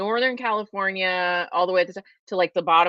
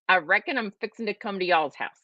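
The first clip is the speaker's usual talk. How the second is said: put-on playful Southern accent. Playfully trying out Southern expressions.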